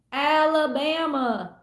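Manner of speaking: put-on slow, drawn-out southern Forrest Gump accent. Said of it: "I hear Forrest Gump saying it".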